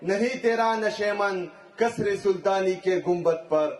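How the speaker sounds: declaimed Urdu verse to a crowd; rally-stage verse recital, falling at the close; poetry recitation. Acted.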